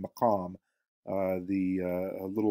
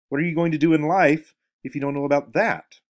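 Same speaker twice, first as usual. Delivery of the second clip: mock despair; 5 semitones higher, 6 dB louder than usual. A narrator's reading. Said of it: "he said in mock despair".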